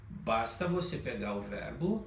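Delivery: ordinary delivery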